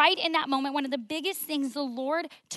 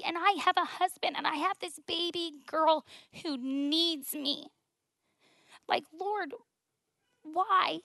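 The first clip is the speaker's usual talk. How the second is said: pleading prayer; 5 semitones higher than usual. Retold or imitated. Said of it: "that was like".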